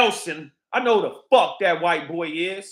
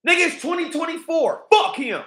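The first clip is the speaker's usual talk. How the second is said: angry outburst; 9 semitones higher, 4 dB louder than usual. Real, not acted.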